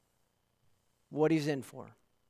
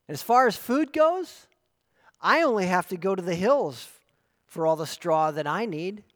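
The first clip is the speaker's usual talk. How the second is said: boastful wild donkey; 5 dB louder than usual. Acted.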